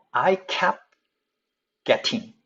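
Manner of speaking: 'I kept' and 'getting' apart, t clear in 'getting'; word by word. Shown as a demonstration. Teacher reading before correcting, separate careful 'I kept getting'. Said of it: "자, kept에서 트 사운드가".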